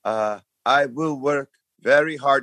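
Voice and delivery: mock French accent, rehearsed-sounding; imitating a nervous French contestant's stock answer. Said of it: "She's from Montreal".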